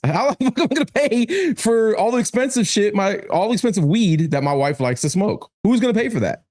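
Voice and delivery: high, laughing mock whine; high mock-broke whine, laughing; laughing complaint. Real, not acted. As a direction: joke about being broke.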